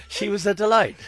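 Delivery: high laugh through the words. Real, not acted. Laughing at own joke.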